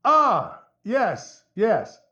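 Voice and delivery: high, halting plea through a door; talking through door. Acted. Locked in, explains through the door.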